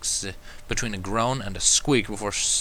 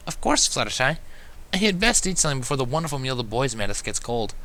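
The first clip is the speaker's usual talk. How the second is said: gentle reminder; 4 semitones higher than usual. Acted. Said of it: "reminded gently".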